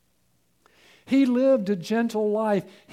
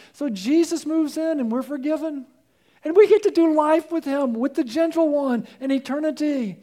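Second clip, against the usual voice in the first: high, louder preacher's climax; fervent preaching; 6 semitones higher, 4 dB louder than usual. Acted. Pastor pressing the gospel on the listener, fervent. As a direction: drive it home to the congregation.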